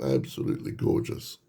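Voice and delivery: soft whispered praise; admiring whisper. Real, not acted. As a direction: breathe it out in awe. Admiring the little drawings.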